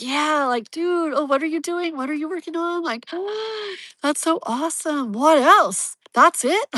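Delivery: mock-gushing boyfriend, lightly voiced; excited fan. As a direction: play him up as thrilled and curious. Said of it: "so into his stuff and so, like".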